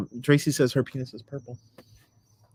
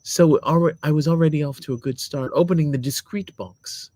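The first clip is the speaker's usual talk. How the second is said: lightly voiced lady reading a review; put-on lady voice. Husband reading his wife's review aloud, put-on lady voice. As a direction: read it as a lady, measured. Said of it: "you have to be a lady".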